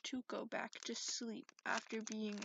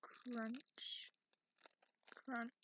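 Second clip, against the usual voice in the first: whisper; 4 dB quieter than usual. Acted. Teasing bone-crunch threat.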